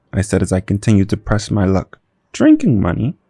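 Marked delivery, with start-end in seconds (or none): 2.3-3.2 shocked, high rising echo; surprised question. Acted. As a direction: repeat it in disbelief. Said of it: "at his question at my obscene request".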